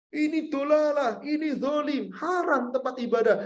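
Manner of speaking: sharp, high scolding of the man; harsh preacher's rebuke, pitched high. Retold or imitated. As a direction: scold him as if condemning him. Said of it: "tidak dengan cara menghardik".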